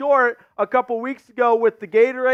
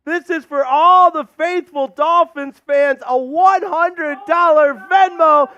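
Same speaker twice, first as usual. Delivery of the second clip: excited; 3 semitones higher than usual. Real, not acted. Announcing big donation.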